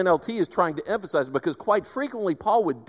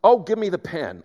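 imagined Paul, hurried; 5 semitones higher than usual. Retold or imitated. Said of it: "I just picture him saying".

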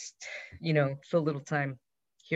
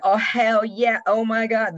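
high, loud excited cheer; 9 semitones higher, 8 dB louder, slower than usual. Retold or imitated. Men in the circle cheering the kiss, high loud excited whoop. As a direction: whoop it like the crowd is thrilled. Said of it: "all the gay men were like".

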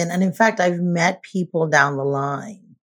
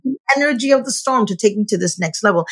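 breezy; 6 semitones higher than usual. Retold or imitated. Quoting unbothered storm survivor.

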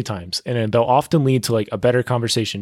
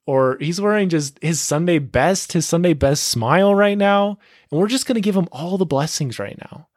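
hyped universe voice; 6 semitones higher than usual. Retold or imitated. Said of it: "the universe is like".

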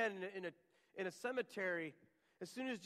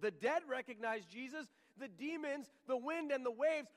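rising higher and louder through the list; building proclamation; 6 semitones higher, 4 dB louder than usual. Acted. Preacher builds the congregation to a louder, higher climax.

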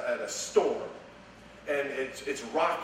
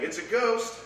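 frightened cry; 8 semitones higher than usual. Acted. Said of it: "they were frightened, saying".

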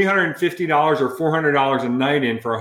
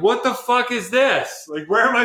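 incredulous disbelief; 10 semitones higher than usual. Retold or imitated. Crew balking at the motorhome, mock-appalled and high.

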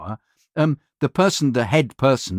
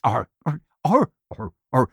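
toned-down pirate aha; much faster than usual. Retold or imitated. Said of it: "No, a little bit less".

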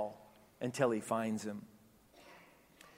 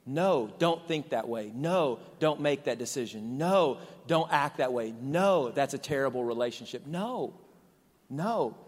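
firm refusal; 4 dB louder than usual. Acted. Acting a friend saying no.

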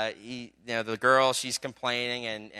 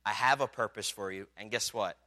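reassuring voice of God; 4 dB quieter than usual. Acted. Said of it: "God says".

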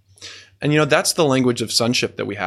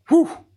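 amazed whew; 3 dB louder than usual. Real, not acted. Overwhelmed by the verse.

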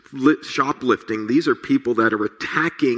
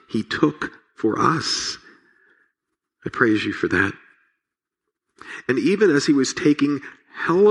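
prayer. Real, not acted. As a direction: pray sincerely over the congregation. Pastor leads closing prayer.

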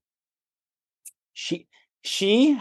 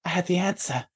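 muttered curse; 8 dB quieter than usual. Retold or imitated. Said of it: "I'm like".

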